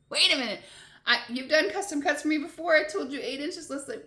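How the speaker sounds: high, loud protest; indignant shock at the counter, replayed; retold disbelief.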